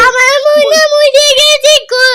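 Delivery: mock crying. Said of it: "একটু কান্দো দিদি".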